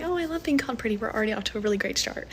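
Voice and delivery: high, fast mock delight; mock delighted reply. Mocking her own delighted reply to a DMing guy. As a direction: gush in fake delight. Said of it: "I'm like".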